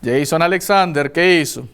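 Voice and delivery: mother uses his full name to warn her son; stern mother. Retold or imitated. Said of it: "cuando el nombre completo es dicho, usted ya sabe que viene cosa grave".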